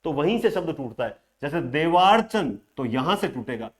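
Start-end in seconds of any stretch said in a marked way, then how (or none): 1.6-2.6 देवार्चन with the long वा leaned on; stress on long vowel. Shown as a demonstration. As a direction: stretch and press the वा in देवार्चन. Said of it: "वहीं पर ज्यादा जोर दिया जा रहा है".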